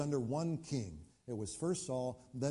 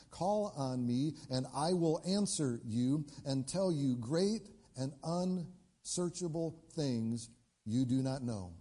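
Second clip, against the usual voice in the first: slow, measured reading of the verse; preacher reading scripture to the church, slow and weighty; slower than usual. Acted. Preacher reads scripture slowly.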